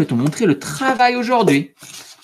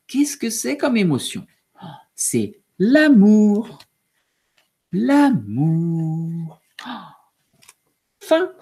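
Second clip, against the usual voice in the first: put-on story reading to children. A narrator's reading. Teacher finishing the book aloud for pupils, animated. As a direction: read to little ones with wonder.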